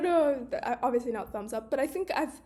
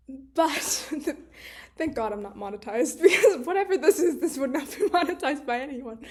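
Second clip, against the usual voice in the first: talking through real laughter; giggling aside about not being monetized; laughing; 4 dB louder than usual. Real, not acted. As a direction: laugh your way through the words. Laughing at her own swearing.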